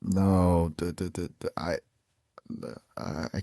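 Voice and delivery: stuttering fade into a whisper; words breaking apart and dying out; fading glitch. Acted. Voice fragmenting during system failure.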